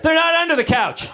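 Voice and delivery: high-pitched imitation of a kid; child's panicked denial. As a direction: insist high, like a guilty little child.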